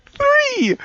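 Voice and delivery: very high squealed THREE; mock scream count. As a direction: squeal the number like a dying scream.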